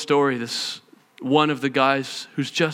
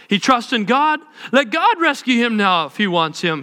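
mocking priests; 6 semitones higher than usual. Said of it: "the elders mocked him".

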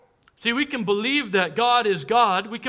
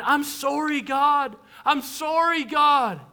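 mock tearful apology; 6 semitones higher, 4 dB louder, slower than usual. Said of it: "I kept saying".

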